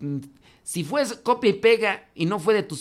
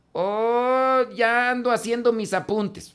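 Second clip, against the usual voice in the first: mock smug student; 6 semitones higher, slower than usual. Mocking a student's copy-paste note.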